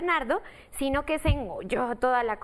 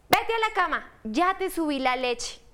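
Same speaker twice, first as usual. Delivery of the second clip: mom voice; 3 semitones higher than usual. Acted. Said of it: "dijo la mamá de Bernardo".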